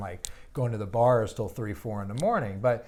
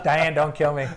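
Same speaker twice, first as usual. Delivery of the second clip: laughing; 5 semitones higher, 9 dB louder than usual. Real, not acted. Joking plea to host's wife.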